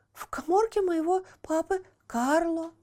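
secretive whisper; hushed confession. Acted. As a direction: breathe the secret out. Buratino reveals a secret.

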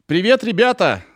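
high, goofy clown greeting; hammy clownish hello; silly clown. Acted. Hammed-up podcast intro greeting.

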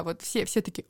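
ordinary talk

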